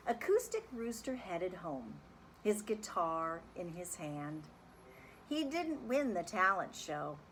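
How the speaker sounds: lively, sing-song picture book reading; reading to children. A narrator's reading. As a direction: read it like story time for kids. Teacher reads picture book aloud.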